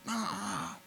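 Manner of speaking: put-on high, childish nuh-uh; lightly hammed-up stubborn whine; mocking stubborn denier. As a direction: imitate a know-it-all who never admits fault. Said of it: "We've all been around those people".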